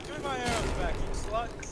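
mock shout. Shouted game banter.

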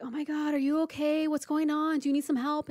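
high-pitched, urgent concern; acted-out flustered questions; worried alarm. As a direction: mimic someone anxiously checking on a friend. Imitating worried boss rushing over.

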